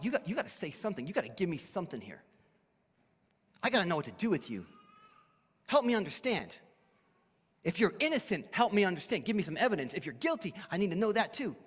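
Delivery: quick, mildly urgent questioning; acted pleading, hurried at first; pressing plea. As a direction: press the prisoner for an answer. Acting Pilate pressing Jesus to answer.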